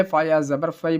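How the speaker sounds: فی said as the mistaken "fai"; repeated mistake. Retold or imitated. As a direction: quote the slip فا یا زبر فی with an "ai" ending. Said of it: "یہ غلط ہے".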